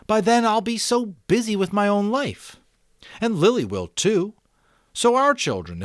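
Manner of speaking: put-on a boy thinking aloud, picking up speed; eager boy Jonas. Jonas insists.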